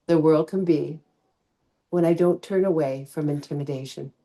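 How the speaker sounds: measured poem recital with reflective pauses; poem reading. Acted. Yoga teacher shares a favorite poet's poem with class, measured reading. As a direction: read the poem aloud, lingering between phrases.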